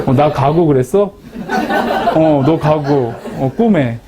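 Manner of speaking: chuckling while replaying the call; can't keep a straight face; laughing through it. Real, not acted. Retelling phone call, laughing. (웃음을 참지 못하며 통화 재연)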